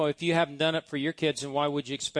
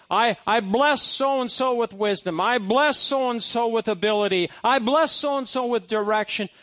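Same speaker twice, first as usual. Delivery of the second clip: higher, declaring blessing lines; sample blessing prayer; 6 semitones higher, 5 dB louder than usual. Shown as a demonstration. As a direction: demo a simple blessing declaration. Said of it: "you can go down that list and say".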